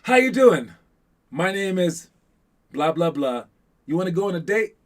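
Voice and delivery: put-on loud, high, brash opener to a girl; mock smooth guy asking a girl out; confident pickup line. Coach playing a bold ninth grader asking a girl out, loud and high. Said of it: "you just go".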